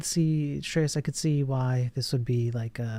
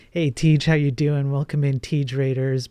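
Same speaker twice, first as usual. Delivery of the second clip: loud greeting; 5 dB louder than usual. Real, not acted. Greeting a raiding streamer.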